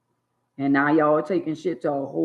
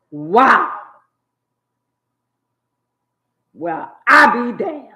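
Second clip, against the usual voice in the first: higher, louder "Wow. Well, I be damned"; mock astonishment; 5 semitones higher, 7 dB louder, slower than usual. Pretending to be shocked at the news, hammed-up. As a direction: play it hammed-up and amazed.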